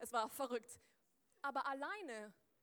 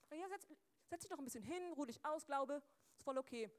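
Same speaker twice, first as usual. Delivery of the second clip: cosy coaxing; 3 semitones higher than usual. Acted. Coaxing faith to rest.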